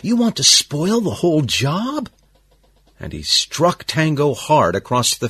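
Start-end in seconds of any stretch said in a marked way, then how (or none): 0.0-2.1 high, tense, indignant question; angry boss. A narrator's reading. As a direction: scold him with a rising, incredulous question. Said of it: "the boss asked in an angry whisper".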